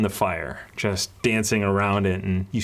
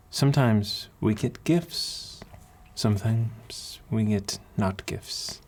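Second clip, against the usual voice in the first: a hint of an accented matron; kindly accented mentor; 2 semitones higher than usual. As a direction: counsel a child with long, considered pauses. Voices the accented woman mentor.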